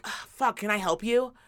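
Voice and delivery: imitating a reluctant store worker; mock grudging customer service; put-out attitude. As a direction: groan it out as if helping is a chore. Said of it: "he had the attitude like".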